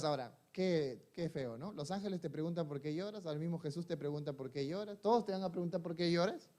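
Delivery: almost confiding, pulling the room in close; softly, as if not to disturb someone weeping; hushed. Acted. Preacher hushes over Mary's tears.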